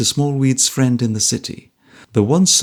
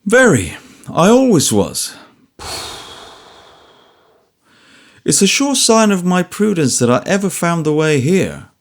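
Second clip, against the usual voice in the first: put-on old man voice; 5 semitones higher, 3 dB louder than usual. A narrator's reading.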